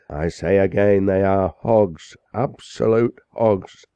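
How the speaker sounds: a scandalized chaplain denouncing the crowd; indignant parson. Acted. Parson's impassioned tirade at the gathering.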